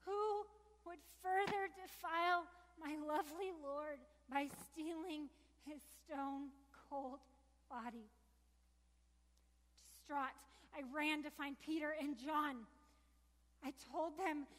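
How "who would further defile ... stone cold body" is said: anguished plea. Acted. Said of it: "I cried out".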